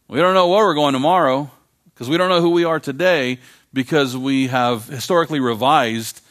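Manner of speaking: fervent preacher at full force; preaching climax. Real, not acted. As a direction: raise the voice and press the warning.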